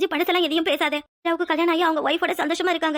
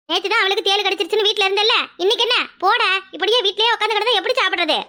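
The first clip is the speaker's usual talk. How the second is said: nagging, raised-voice reproach; exasperated scolding; 3 semitones higher than usual. Acted. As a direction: shoo him off to work crossly. Grandmother scolds grandson for skipping work.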